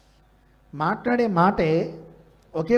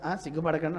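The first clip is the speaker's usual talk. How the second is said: soft, low "ఆ, సిగ్గుపడకండి" reassuring; quiet and kind, urging the guest; gentle encouragement; 3 semitones lower, 4 dB quieter than usual. Shown as a demonstration. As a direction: put the shy guest at ease. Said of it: "మామూలుగా".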